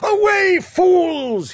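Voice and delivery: very high, loud royal shout; furious shout. Acted. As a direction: drive the fools out. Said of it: "he shouted".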